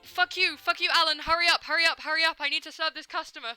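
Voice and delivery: loud, high furious shouting at the game; angry yelling. Real, not acted. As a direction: scream at the customers in frustration. Raging at game customers.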